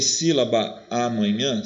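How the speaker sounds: sílaba amanhã linked on one long A; demonstrating sílabaa-manhã; two As run together. Shown as a demonstration. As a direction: stretch the A where sílaba meets amanhã. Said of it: "Eu não juntei os dois As".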